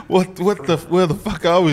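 mildly acted confused alarm; retold panic. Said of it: "'cause I've panicked".

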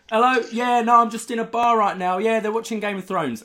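high mock British accent on the phone; the old man's phone call, mimicked in a hammed-up British accent. Old guy answers phone in bar.

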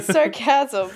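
"Sarcasm" as sar-CASM, second syllable punched; wrong-syllable stress. Pretend. Co-host repeating her joke, "Sarcasm" stressed as sar-CASM. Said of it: "put the emphasis on the wrong syllable".

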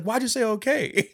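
high, laughing exasperation; laughing mock scold. The speaker scolding Simon back, laughing up high. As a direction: crack up while asking. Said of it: "He's like".

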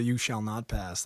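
Gandalf voice. Retold or imitated. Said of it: "That was pretty Gandalf to me".

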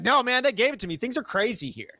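high, shrugging innocent voice; playing dumb. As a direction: play clueless, pitch up. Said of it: "he's like".

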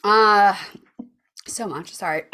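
choking on water; words through a water cough; swallowed wrong way. Real, not acted. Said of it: "'Cause I'm choking on water".

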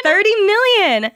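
high, loud, drawn-out celebration; thrilled shout. Real, not acted. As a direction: shout the figure out slowly with glee. Confirming surprise news.

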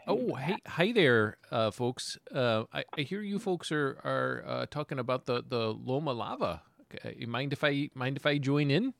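soft, hesitant townsman asking to join; Harold. Acted. Harold approaching the folks at the table, softly hesitant. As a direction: stammer gently through a shy greeting. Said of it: "Harold comes walking over and says".

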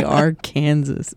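"Arkansas" as ar-KAN-zis; say it like Kansas. Shown as a demonstration. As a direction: sound the final S of "Arkansas". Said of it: "that's how I pronounce it".

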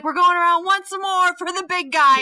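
gleeful taunt. Retold or imitated. Voices friend teasing her.

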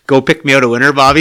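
quoting Roy. Retold or imitated. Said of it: "I couldn't believe I said it".

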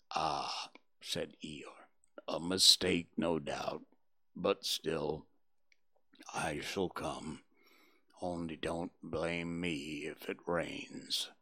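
low, slow, soft donkey voice; gloomy Eeyore. Acted. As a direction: mope through it like a gloomy old donkey.

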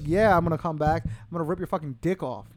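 hint of a menacing young boxer; lightly played trash-talking fighter making a threat; Mike Tyson. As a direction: imitate a fighter's boastful threat, mildly. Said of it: "this is not Mike Tyson from, like, the early nineties".

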